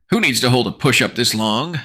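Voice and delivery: strained high outcry; crying out. Acted. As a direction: cry out exhausted. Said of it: "I cry out".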